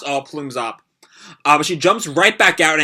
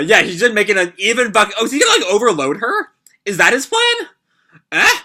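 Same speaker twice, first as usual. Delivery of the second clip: excited; 7 semitones higher, 4 dB louder than usual. Real, not acted. Viewer reacts excitedly to the fight.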